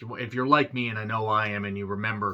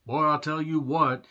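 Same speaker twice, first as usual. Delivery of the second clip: put-on higher-pitched Boomhauer-style accent; Boomhauer type accent; 5 semitones higher, 3 dB louder than usual. Reviewer spoofing a singer's film accent, Boomhauer accent. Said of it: "an over-the-top Boomhauer type accent".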